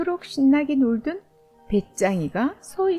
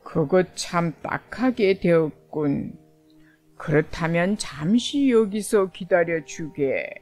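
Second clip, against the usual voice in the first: put-on old man voice; 5 semitones lower than usual.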